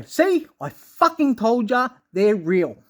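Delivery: smug vindicated boast; gloating told-you-so. Pretend. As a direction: rub it in slowly. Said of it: "and I'm gonna go".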